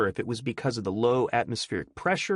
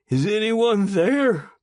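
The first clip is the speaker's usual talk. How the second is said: loud high call into the dark; shouting; 12 semitones higher, 7 dB louder, slower than usual. Acted. Prisoner calling down the corridor, shouting. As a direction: call out for anyone. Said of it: "Eustace shouted".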